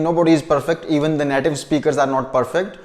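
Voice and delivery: usual speaking voice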